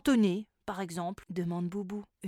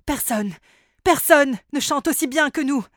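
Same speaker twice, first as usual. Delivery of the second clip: vain pop star; 6 dB louder than usual. Acted. Vain elf singer bragging.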